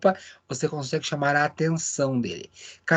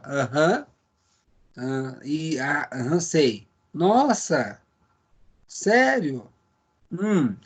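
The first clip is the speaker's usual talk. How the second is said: listening backchannel; much slower than usual. Shown as a demonstration. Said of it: "você fica assim, ó".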